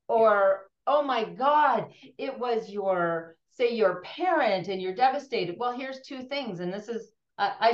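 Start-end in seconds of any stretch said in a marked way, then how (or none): 0.8-5.5 mock heavy sympathy. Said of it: "is the comparing and judging".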